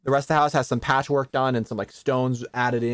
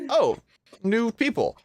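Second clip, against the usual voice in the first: high, pleasantly surprised greeting; raised-pitch "oh" of discovery; mild surprise; 10 semitones higher, slower than usual. Acted. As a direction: notice strangers with a lifted voice. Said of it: "it takes a second where he looks".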